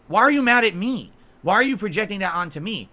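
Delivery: angry retort to a rival online; indignant outburst. Real, not acted. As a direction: fire the question straight at him. Ranting at absent rival.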